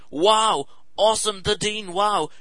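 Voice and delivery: gushing fundraiser. Retold or imitated. Woman gushing.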